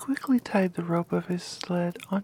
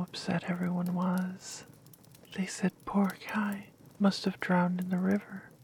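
whispered story. Acted.

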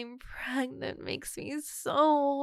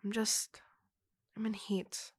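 calm and subdued after the yelling. Acted. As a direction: murmur it, deflated after the outburst. Softer repeat after apologizing for yelling.

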